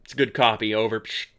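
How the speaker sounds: low pretend walkie-talkie voice; radio acknowledgement with mouth-made static; mock radio reply. Host answering ground control, mock radio voice.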